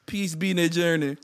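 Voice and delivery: light put-on Jamaican accent, laughing through it; mock Jamaican accent. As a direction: play a jokey Jamaican man. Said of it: "in a different accent".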